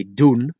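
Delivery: doen as Dutch doon, N sounded; N kept. Shown as a demonstration. Teacher warning learners, doen keeping its N. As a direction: say doen with a clear final N. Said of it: "you could not leave out".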